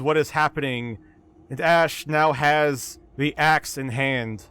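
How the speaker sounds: measured storytelling with deliberate pauses; game master narration. A narrator's reading. Game master telling players how Ash grabs the axe, measured narration. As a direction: unfold the action phrase by phrase.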